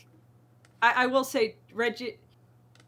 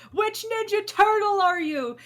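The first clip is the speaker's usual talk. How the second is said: much higher, louder call to a crowd; concert crowd call; 11 semitones higher, 6 dB louder than usual. Retold or imitated. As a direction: hype up the audience like a singer on stage. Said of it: "someone was like".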